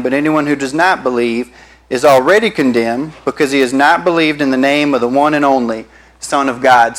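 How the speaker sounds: a measured, earnest reading of the verse; scripture reading. Acted. Pastor reading John three sixteen aloud, measured and earnest. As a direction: read the Bible passage to the congregation.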